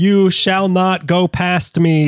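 slow booming wizard command; Gandalf voice. Acted. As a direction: intone it like a wizard blocking the way. Gandalf quote, slow and high.

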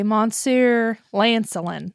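Monsieur Lancelin slow in a French accent. Shown as a demonstration. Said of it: "when I'm in my accent".

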